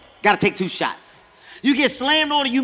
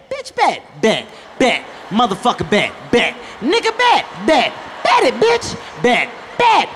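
one-up each other until you're yelling; a competitive chant of bet that builds to a shout; escalating bet shouts; 3 semitones higher than usual. Retold or imitated.

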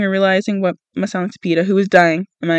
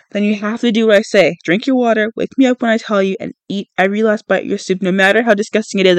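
snapping. Acted. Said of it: "I snap at him".

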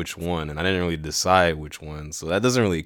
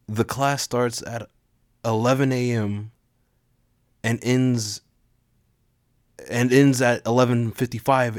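put-on shy teen announcer; 3 semitones higher than usual. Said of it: "a shy teenage boy giving an announcement".

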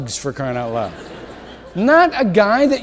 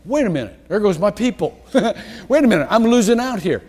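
anxious fretting; 3 semitones higher, faster than usual. Pretend. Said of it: "I don't want you to think".

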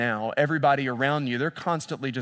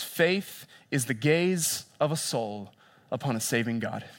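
reverent quote; 2 semitones lower, slower than usual. Acted. Quoting Tozer slowly.

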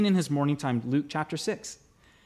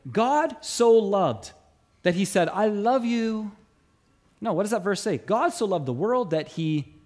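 scripture recitation. Acted. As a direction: savour each phrase of the verse. Quoting John 3:16 slowly.

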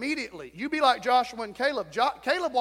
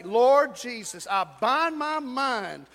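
slow, fervent prayer for them to repeat; leading the congregation in a slow, loud prayer; model prayer; 3 dB louder, slower than usual. Shown as a demonstration. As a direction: pray it out slowly, line by line.

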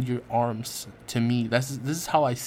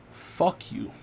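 a harsh whispered fuck you at his reflection; whispered curse; 4 semitones higher than usual. Retold or imitated. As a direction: hiss it at yourself in the mirror. Cursing self in the mirror.

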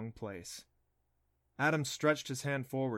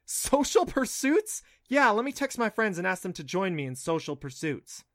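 sarcastic; 7 semitones higher, 7 dB louder than usual. Acted. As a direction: scoff at the phrase. Clancy mocks dad's phrase.

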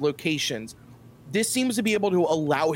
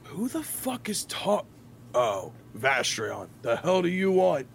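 Derek. Acted. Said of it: "Derek starts to speak and goes".

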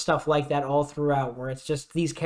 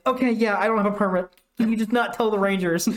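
higher, pleading confession; sheepish cat; 5 semitones higher than usual. Retold or imitated. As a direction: beg them not to tell, sheepishly.

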